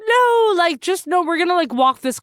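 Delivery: high-pitched pleading objection, imitated; retold protest. Teller replaying her protest to a balking ex-girlfriend, high mock pleading.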